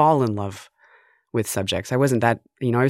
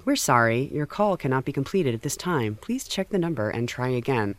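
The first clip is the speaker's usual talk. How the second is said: measured recorded-operator announcement, trailing softer; telephone operator recording; 4 dB quieter than usual. Retold or imitated. Bell telephone recording turning away a failed call, polite operator voice. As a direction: imitate an automated phone company message. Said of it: "the, the Bell telephone".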